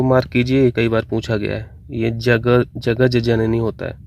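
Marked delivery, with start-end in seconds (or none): 2.8-3.6 जगज जननी spaced out slowly, ja-gaj ja-na-nee; syllable-by-syllable. Shown as a demonstration. Teacher dictating the correct spelling, slow careful जगज जननी. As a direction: sound out जगज जननी with a clear doubled j. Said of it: "इसको ऐसे ही लिखना है आपको".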